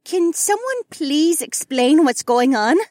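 high, loud, slow plea; flustered mother. A narrator's reading. Mother bewildered by the arrivals, flustered. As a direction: plead for an explanation, high and drawn out.

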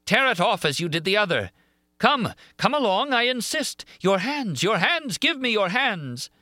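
very high, frenzied roar. A narrator's reading. Monster demanding Christine's hands, roared. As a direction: insist wildly, pitch pushed right up. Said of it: "he roared".

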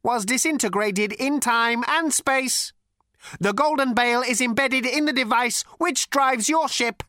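ancient robot with a cultured rasp; cold, sleek machine voice; cold lifeless robot. A narrator's reading. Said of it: "continued the robot simply".

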